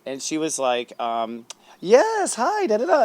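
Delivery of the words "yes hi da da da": much higher, louder mock celebrity hello; imitated enthusiastic greeting. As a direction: mimic her gushing reply in a high voice. Voices the celebrity greeting him back.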